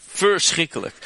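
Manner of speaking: Verschrikkelijk cried out high and loud in horror; horrified exclamation. Acted. Preacher recoiling at the brothers' betrayal, horrified cry. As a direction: throw up the word Verschrikkelijk like a gasp of dismay.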